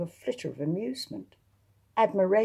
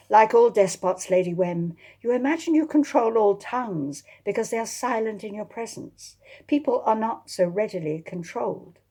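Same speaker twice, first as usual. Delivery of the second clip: losing patience; 4 semitones higher, 3 dB louder than usual. Acted. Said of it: "Losing patience".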